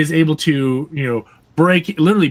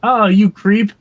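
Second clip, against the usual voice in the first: put-on old man grumble; 6 semitones higher, 4 dB louder, slower than usual. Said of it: "something an old man would say".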